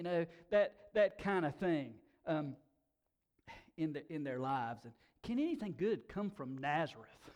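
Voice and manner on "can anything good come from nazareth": amused, laughing as he asks; preacher laughing at Nathanael's question. Real, not acted. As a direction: quote spoken through a chuckle. Laughing retelling of the quote.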